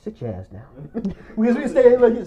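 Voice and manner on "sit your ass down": low, very soft retold order; stunned command. Showing the friend sending him off, stunned hush. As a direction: imitate him quietly laying down the law. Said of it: "he did like this".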